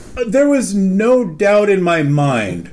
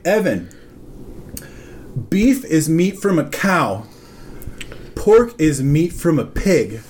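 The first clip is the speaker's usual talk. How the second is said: measured, pausing mock lesson; patient explaining; 4 semitones lower, 4 dB quieter than usual. Manager explaining meats to coworker, retold deliberate patience. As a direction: imitate spelling out the very basics.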